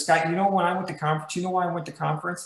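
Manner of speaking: a fast, pushy retelling of the agent's teasing question; quick retold question. Sales manager quickly mimicking his agent's question about conference. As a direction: rattle it off quickly, the way he said it. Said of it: "This is exactly how he said it".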